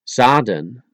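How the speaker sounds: Zaden starting with an S sound. Shown as a demonstration. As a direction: say Zaden as Saden. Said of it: "the Z into an S".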